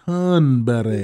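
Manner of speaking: put-on slow, drawn-out Cockney accent. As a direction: say it the Cockney way, slowly. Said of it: "like, my Cockney accent".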